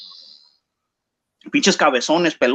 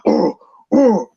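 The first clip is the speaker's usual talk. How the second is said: mock pained grunts, a bit higher; imitated grunting; 4 semitones higher, 3 dB louder than usual. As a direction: grunt like a beaten fighter who can't breathe through his nose. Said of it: "He kept grunting".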